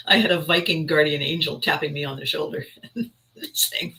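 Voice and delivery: telling it through laughter; real amusement bubbling through; amused, laughing. Real, not acted. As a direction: let a chuckle run into the words. Laughs while retelling cute remark.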